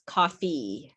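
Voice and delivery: "coffee" ending on a fully pronounced ee; full final E. Shown as a demonstration. Teacher shows English pronunciation, "coffee" with a full final ee. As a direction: give "coffee" a complete ee at the end. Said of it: "fully pronounce that E".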